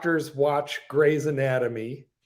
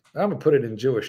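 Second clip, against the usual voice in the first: ordinary talk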